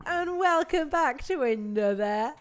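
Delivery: loud, bright show intro; show host voice. Acted. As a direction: announce it like a game show host. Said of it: "I love the way you act like you haven't already been here".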